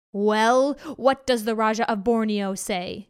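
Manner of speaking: loud, rumbling demand; growling tiger king. Acted. Tiger Raja growling at his trembling servants, loud. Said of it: "he growled".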